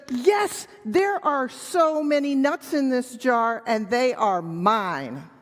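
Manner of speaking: a hint of possessive monkey; lightly voiced greedy monkey. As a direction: play a monkey clutching his treasure. Monkey greedily claims the nuts.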